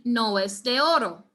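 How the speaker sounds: "no es de oro" said as one smooth flow; linked phrase. Shown as a demonstration. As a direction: run "no es de oro" together without breaks. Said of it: "So if you're saying this sentence".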